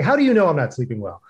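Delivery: retorting defensively to a friend's blunt concern. Retold or imitated. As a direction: bristle and push back fast. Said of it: "I started getting defensive".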